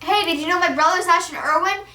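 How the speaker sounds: high eager brag; student bragging to the principal, eager. Pretend. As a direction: show off the famous brother. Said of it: "I'd be like".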